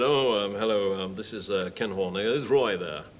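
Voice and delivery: low-pitched impostor asking for the producer; Kenneth Horne. Retold or imitated. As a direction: pose as a senior radio star on the phone. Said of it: "doing these impersonations".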